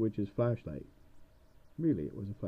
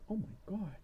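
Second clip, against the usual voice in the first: witch voice; 3 semitones higher, 3 dB quieter than usual. Acted. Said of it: "she's looking at him like".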